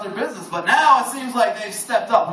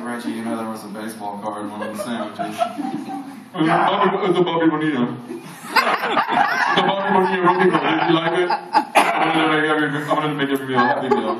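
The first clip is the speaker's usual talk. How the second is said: voicing Reggie; 6 semitones lower than usual. Manager then Reggie voiced.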